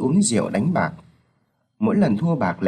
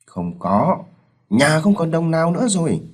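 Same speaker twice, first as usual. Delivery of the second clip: angry shout; 4 semitones higher than usual. Acted. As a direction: scold the gambler son furiously. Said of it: "Ông Sáu nổi giận quát". (ông bố giận dữ quát)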